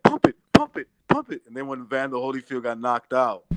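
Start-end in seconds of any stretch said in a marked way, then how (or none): 0.0-1.4 very high, loud ecstatic squeal; screaming woman fan. Retold or imitated. Ex-sister-in-law cheering Holyfield, ecstatic high squeal. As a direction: squeal like she's climaxing. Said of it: "She's like".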